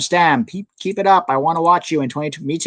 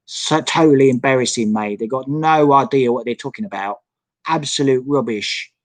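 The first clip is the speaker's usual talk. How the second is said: mock British accent. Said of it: "You like my accent".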